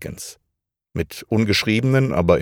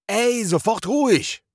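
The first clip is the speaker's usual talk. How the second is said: slow commanding shush; 14 semitones higher than usual. Acted. A fighter calms others in battle.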